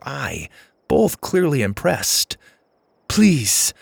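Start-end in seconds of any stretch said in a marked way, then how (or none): 3.1-3.7 high, urgent plea; pleading. A narrator's reading. Lainey begs the driver for help, pleading. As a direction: beg with a raised pitch. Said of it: "Lainey pleaded".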